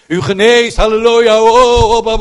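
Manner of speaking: high, loud mock cries of halleluja; mocking shouts. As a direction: ham up the shouting healers. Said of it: "te schreeuwen en te brullen". (spottend, luid brullende gebedsgenezers)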